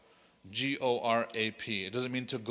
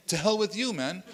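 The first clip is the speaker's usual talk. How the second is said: imagined angry retort; 6 semitones higher than usual. Retold or imitated. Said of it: "you can see that's his expression, but he didn't say it that way".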